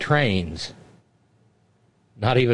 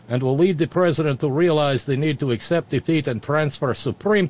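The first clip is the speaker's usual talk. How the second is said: put-on Russian accent. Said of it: "my Russian accent".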